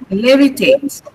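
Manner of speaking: "Levitate" with the ending "tate" kept light; "Levitate" leaning on LE, not on "tate"; unstressed final syllable. Shown as a demonstration. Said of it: "tate should not be prominent".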